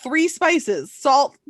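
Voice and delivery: naive cook. Retold or imitated. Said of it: "it was like".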